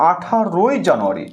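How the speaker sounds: "আঠারোই" slowly, with the রোই drawn out; slow, careful model of "আঠারোই"; drawn-out ই ending. Shown as a demonstration. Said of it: "তোমাকে রসই লিখতে হবে".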